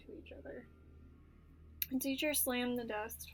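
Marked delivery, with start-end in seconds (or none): 0.1-0.7 whispered narration. A narrator's reading. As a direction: hush it like gossip. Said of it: "started whispering".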